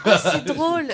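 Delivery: laughing through the words; amused and laughing out loud. Real, not acted. Laughing at the diving mix-up.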